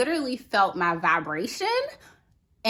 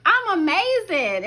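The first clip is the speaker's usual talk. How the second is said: higher and louder, beaming reply; elated; 10 semitones higher, 5 dB louder than usual. Retold or imitated. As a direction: burst out with joy. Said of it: "And I said".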